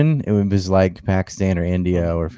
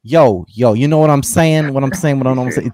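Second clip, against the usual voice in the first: awkward mock jive, pitched up and insistent; Quentin Tarantino; 5 semitones higher, 4 dB louder than usual. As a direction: imitate someone trying too hard to sound street, higher voice. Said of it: "jive-ish or gangsterish".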